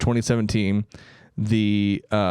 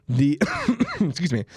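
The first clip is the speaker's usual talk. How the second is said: strained voice right after coughing; choking on spit; 7 semitones higher than usual. Real, not acted. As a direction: talk while choking on spit. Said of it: "I'm choking on spit".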